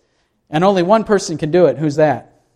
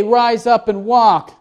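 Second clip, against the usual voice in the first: high, slow, authoritative command; commanding Jesus; 6 semitones higher, slower than usual. Acted. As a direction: pronounce it like a proof of power. Jesus voiced giving the command.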